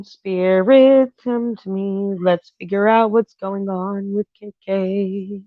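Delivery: slow, drawn-out summoning of the spirit; spirit invocation. Real, not acted. Tarot reader calls on spirit for K K, intoning slowly. Calling the spirit before reading.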